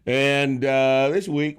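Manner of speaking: loud, high-pitched podcast host intro; show-opening announcement. Real, not acted. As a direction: announce the show to the whole audience. Opens the show.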